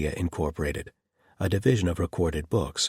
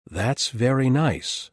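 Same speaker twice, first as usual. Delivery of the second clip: mock imitation of Clara; 6 semitones higher, 4 dB louder, slower than usual. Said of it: "I believe she said".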